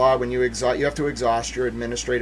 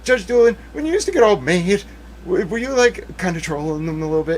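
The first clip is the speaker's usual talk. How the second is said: raised, playful imagined address; imagined chummy question; 5 semitones higher than usual. Acted. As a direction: act out putting a question to the judge. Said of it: "And I'm gonna be like".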